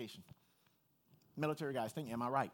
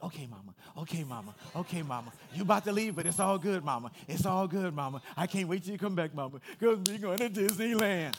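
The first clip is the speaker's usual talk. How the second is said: put-on little girl voice; 9 dB louder than usual. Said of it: "She's like".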